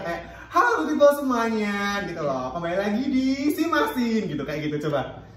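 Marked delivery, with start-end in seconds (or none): 0.5-1.8 higher, louder cheerful hello taken slowly; slow cheerful greeting. Shown as a demonstration. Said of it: "tapi pelan-pelan aja". 2.5-4.2 slow cheerful. Shown as a demonstration. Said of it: "tapi pelan-pelan aja".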